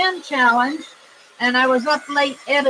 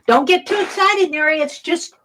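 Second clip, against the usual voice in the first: quoting Violet; 4 semitones higher, 4 dB louder than usual. Retold or imitated. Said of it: "She said".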